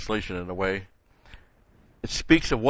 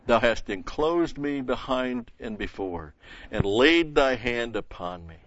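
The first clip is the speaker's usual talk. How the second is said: louder solemn reading, slowing toward the end; scripture reading; 3 dB louder than usual. Acted. Preacher reads the rest of the psalm aloud, solemn and slowing. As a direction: read it like a prayer you are sharing.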